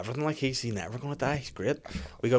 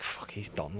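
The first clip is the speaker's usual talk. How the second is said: sad; 4 semitones lower, 11 dB quieter, slower than usual. Retold or imitated. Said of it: "like, sadly".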